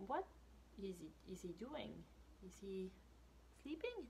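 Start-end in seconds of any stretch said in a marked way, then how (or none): 1.3-1.9 soft unvoiced whisper; hushed curious whisper. Real, not acted. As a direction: whisper it like a secret. Wondering aloud to child listeners.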